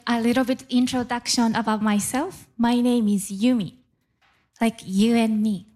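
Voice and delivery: ordinary talk, nothing marked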